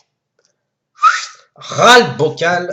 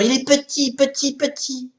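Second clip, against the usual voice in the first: shrinking voice; 9 semitones higher, 8 dB quieter than usual. Acted. Tiny heart, voice shrinks.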